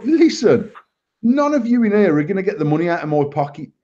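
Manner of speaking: imitating himself telling the waiter off; retold angry rant. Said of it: "I've ended up properly abusing him".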